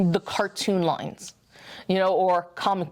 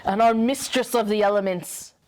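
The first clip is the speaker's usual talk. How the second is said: dramatic unveiling. Acted. Co-host presenting the unboxed Storm, mock-grand and dramatic.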